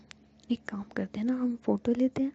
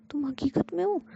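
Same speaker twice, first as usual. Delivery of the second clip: high, startled question; shocked disbelief; 7 semitones higher, 4 dB louder than usual. A narrator's reading. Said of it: "shock हो जाती है". (हैरान होकर ऊँची आवाज़ में सवाल)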